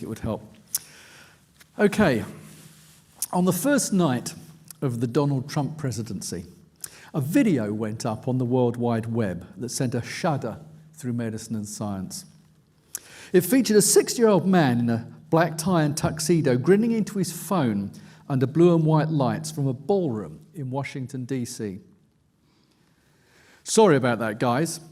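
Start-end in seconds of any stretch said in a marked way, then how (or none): 3.3-21.8 steady, measured reading of his own nonfiction; book reading. A narrator's reading. Reads aloud from his book. 23.6-24.8 the quote pushed out louder, apologetic; mellow British voice. Retold or imitated. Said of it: "he says in a mellow British accent".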